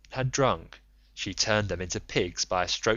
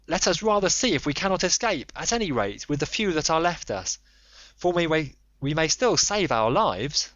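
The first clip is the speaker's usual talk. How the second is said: higher, begging voice, voice catching with pity; piteous pleading; 5 semitones higher than usual. Acted. Frightened comrade begs his leader to stay, piteous pleading. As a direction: plead desperately not to be sent back in. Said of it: "spoke piteously".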